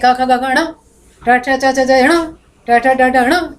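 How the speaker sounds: letter rows rattled off, each ending in "ण"; chanted roll-call of letters, "ण" last; everyone says ण. Shown as a demonstration. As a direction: recite the consonant rows, closing each on a firm "ण". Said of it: "सभी ण बोलते हैं".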